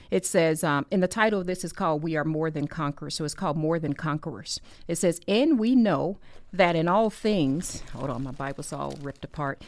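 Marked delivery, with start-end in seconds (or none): 5.3-7.8 slow, emphatic Bible reading; scripture reading. Real, not acted. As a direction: read the verse out deliberately. Reads scripture aloud.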